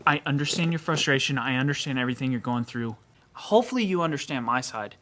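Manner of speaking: calm, even reassurance. Retold or imitated. Clerk soothing a frustrated customer, calmly. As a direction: keep it level and composed. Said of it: "And I calmly said".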